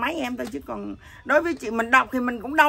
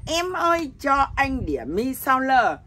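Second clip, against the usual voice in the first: lightly acted call to a waitress, pitched up then drawn out; prank language lesson; 3 dB louder, slower than usual. Teaching a foreigner to order noodles, lightly mock ordering voice. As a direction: model the order slowly for a learner. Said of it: "chị mới dạy ổng tiếng Việt".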